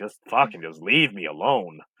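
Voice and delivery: mock impatient, grumpy, worn-out, exhausted snap. Retelling a tired mother snapping at her children: imitating someone grumpy and exhausted. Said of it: "now she's grumpy".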